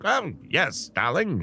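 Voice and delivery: lightly mock the actor's plummy delivery; Fairbanks's posh accent. Podcast host lightly mimicking Fairbanks's accent for his co-host. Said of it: "he talks like this".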